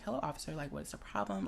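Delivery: soft, low, careful politeness; hushed, non-threatening code-switched voice; white voice. Acted. Driver to police officer, calm and deferential. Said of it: "you have to talk like this".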